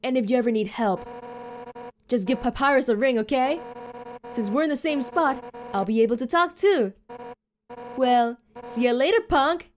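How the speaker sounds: put-on cocky, friendly tough girl saying goodbye; tough fighter girl voice. Voices game character dialogue.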